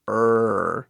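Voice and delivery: "R" held as a long "errr"; thick English R. Shown as a demonstration. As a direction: sustain "R" almost like a vowel. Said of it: "Bem grosso, bem forte".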